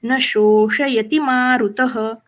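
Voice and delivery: slow, measured Sanskrit chant; slow shloka recital. Shown as a demonstration. Teacher demonstrates shloka recitation slowly. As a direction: recite the verse slowly, syllable by syllable. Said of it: "इस तरह से हम ये श्लोक बोलते हैं".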